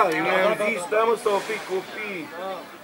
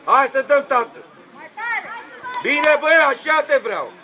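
encouraging call; 5 semitones higher than usual. Real, not acted. Encouraging a player from sideline.

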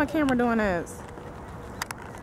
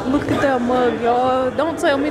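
amazed; 3 semitones higher, slower than usual. Real, not acted. Amazed at realistic mug.

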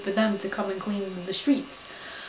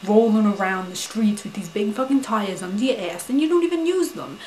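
retold scolding rant. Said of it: "I said".

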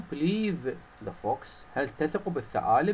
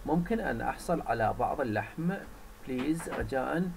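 polite request. Acted. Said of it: "He asked politely".

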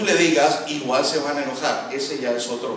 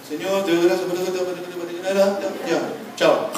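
hurried sleepy prayer; 3 semitones higher than usual. Pretend. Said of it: "Creen que orar es ir a la cama".

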